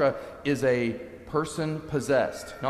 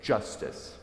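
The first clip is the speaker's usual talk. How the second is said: quiet refusal; 4 semitones lower, 6 dB quieter than usual. Retold or imitated. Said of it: "She says".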